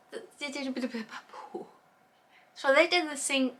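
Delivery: hiccuping between words; hiccups. Real, not acted. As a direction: speak through hiccups. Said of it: "I'm hiccuping on my words right now".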